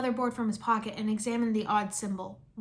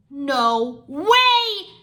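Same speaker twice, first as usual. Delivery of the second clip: loud amazed exclamation; exclaiming; 4 semitones higher, 11 dB louder than usual. Acted. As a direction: gasp it out in awe. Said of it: "Jay exclaimed".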